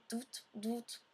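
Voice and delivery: short, soft imitation of a button buzz; imitated buzz. Player shows what touching the buttons sounds like, soft imitated buzz. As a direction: mimic a small vibration in two quick pulses. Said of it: "Ça fait une sorte de petite vibration".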